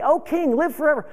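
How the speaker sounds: bright, high joyful cry to the king; joyous. Retold or imitated. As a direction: sing out "Oh, King, live forever" with joy, pitched high. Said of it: "joyous to say".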